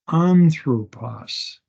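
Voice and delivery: slow, drawn-out "Anthropos" with no H; "Anthropos" starting straight on the vowel; smooth breathing. Shown as a demonstration. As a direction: sound out "Anthropos" slowly from a clean A. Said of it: "There's no rough breathing".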